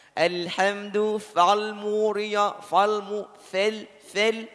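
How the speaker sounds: fal muriya said slowly with a thin fil vowel; slow thin-vowel recitation; thin fal demo. Shown as a demonstration. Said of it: "saya ulangi lagi".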